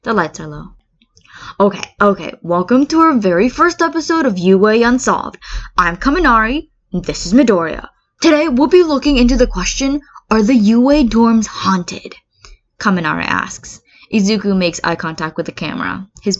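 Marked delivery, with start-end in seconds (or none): 1.6-12.1 bright, loud video-host opener, rising high; excited show host. Acted. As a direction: hype up the viewers like a YouTube host.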